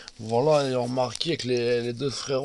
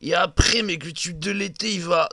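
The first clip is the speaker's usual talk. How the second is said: higher, louder, carried away pitching the dream; visionary hype; 4 semitones higher, 4 dB louder than usual. Acted. Johnny pitching the boy band to his brother, hyped and loud. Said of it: "Johnny devient visionnaire comme ça".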